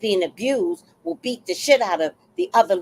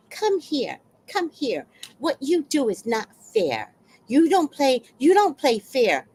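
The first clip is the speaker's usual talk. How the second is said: imitating mother; 5 semitones higher than usual. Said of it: "I heard the mother say".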